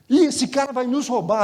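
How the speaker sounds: startled cry of a worried brother-in-law; alarmed warning. Retold or imitated. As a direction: sound the alarm about the robber. Brother-in-law alarmed, retold again.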